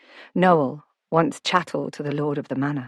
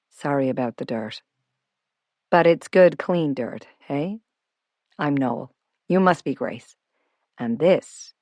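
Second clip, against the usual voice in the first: lightly voiced affable man welcoming guests; friendly self-made homeowner. Noel greeting Grace with muddy hands, lightly voiced and friendly. Noel's dialogue in narration.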